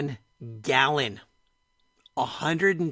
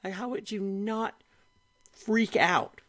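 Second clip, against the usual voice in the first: softer, breathy repeat, trailing into a whisper; dropped to a whisper; 5 semitones higher, 3 dB quieter than usual. Real, not acted. Host echoes own question to co-host, quiet whisper. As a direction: repeat it under your breath.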